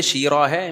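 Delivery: شیرہ ہے with heavy tajweed ha; mock qari over-articulation; imitating the qari. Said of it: "کہنے لگے".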